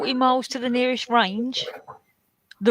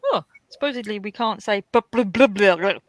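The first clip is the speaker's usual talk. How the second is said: imitating a bloke; 5 dB louder than usual. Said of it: "of a bloke going".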